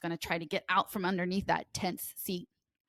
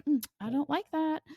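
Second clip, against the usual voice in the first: a horse grumbling its displeasure, a bit higher; horse's voice; 8 semitones higher than usual. Retold or imitated. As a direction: lightly voice the annoyed horse. Horse voiced in grooming story.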